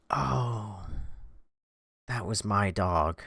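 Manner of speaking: soft, low, deflated imitation; sad poor guy. Poor guy learning his dog is dead, low sad imitation. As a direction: sink into a quiet mock-heartbroken realisation. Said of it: "this is when the story gets sad again".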